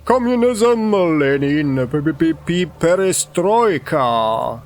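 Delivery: sudden loud stuttered outburst; crying out. Acted. Man greeting a stranger blurts out slogans, crying out. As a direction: blurt it loudly, sputtering on the p's. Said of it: "we hear him cry out".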